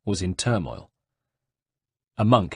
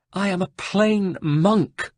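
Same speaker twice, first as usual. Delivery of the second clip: weeping; 10 semitones higher, slower than usual. Acted. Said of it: "wept the Carmelite".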